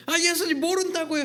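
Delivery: high, loud denial; Peter's high, loud denial; Peter denying. Acted. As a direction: brush it off fast.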